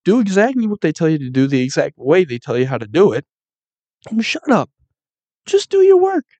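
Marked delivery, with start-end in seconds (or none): 4.1-6.2 high, sharp mock boss voice; snotty boss barking orders. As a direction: bark it like a bossy foreman.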